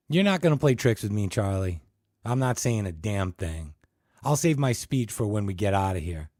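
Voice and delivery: loud defiant refusal. Acted. Ted refusing Charlie, loud and defiant. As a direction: refuse him, hard and loud.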